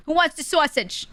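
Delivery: high-pitched mock yell; yelling uncle. Uncle offering a sausage to everyone, yelling. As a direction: holler it across the cookout as a loud uncle. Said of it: "He's yelling it 'cause he's, he's loud".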